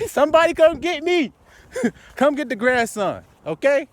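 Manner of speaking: high, loud laughing call to be fetched; laughing excitedly. Real, not acted. Preacher carried away in the spirit, laughing loud.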